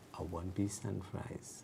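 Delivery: mock hushed, very quiet. Describing how people order at a fast-food counter, imitating very quiet ordering. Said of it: "they're very quietly saying".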